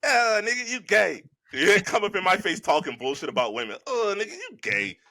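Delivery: lightly voiced cartoon-kid taunt; a hint of a cocky cartoon character, heckling; mock-dismissive character jeer; Riley Freeman. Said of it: "I'm Riley Freeman on that one".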